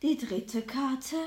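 slow solemn reveal; fortune teller. Acted. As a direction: draw the words out mysteriously.

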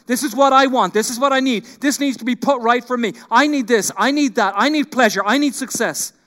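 mock-selfish voice listing what I need; demanding self. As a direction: press each want like a spoiled child. Voicing a self-centred demanding heart.

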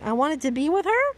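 "her" lifted into a high questioning rise. A narrator's reading. Reader voices Ash's written question, rising on "her". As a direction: turn it into a question, voice climbing on "her". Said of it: "Question mark".

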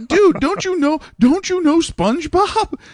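high, drawn-out disbelief; high incredulous. Retold or imitated. Teacher to bored first graders, high incredulous squeak. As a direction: squeak it out like you can't believe it. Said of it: "I'm like".

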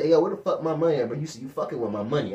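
low, quick drug-dealer demand; lightly played tough money collector; imitated pimp talk. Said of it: "You sound like a pimp".

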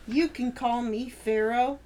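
cheesy pickup line. Pretend. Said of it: "Here's a fun one".

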